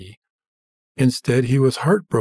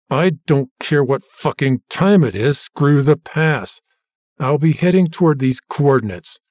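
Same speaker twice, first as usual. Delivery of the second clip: raised voice; 2 semitones higher, 3 dB louder than usual. Acted. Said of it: "James couldn't help but raise his voice".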